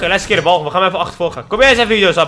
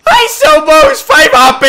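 laughing squeal; 12 dB louder, slower than usual. Real, not acted. Laughing at angry enemy.

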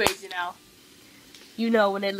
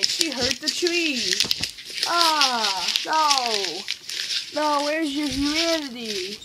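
hammed-up despair over the tree; 2 semitones higher, 4 dB louder, slower than usual. Game character destroys a tree.

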